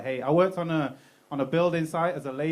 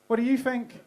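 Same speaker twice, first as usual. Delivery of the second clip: bouncing question back; 7 semitones higher than usual. Shown as a demonstration. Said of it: "If it's a question, you just go".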